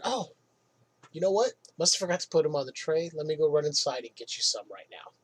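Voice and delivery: lightly acted helpful politeness; extremely nice. Employee answering a celebrity customer about napkins, extremely nice. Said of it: "I was extremely nice".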